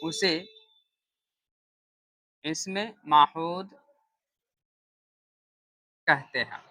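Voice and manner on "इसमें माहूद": slow dictation. Shown as a demonstration. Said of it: "इसको हम लोग लिखेंगे".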